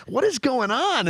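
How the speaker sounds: high, drawn-out baffled outcry; retold moment of total bafflement; bewildered. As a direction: stretch it out in high-pitched disbelief. Bewildered at sudden crying.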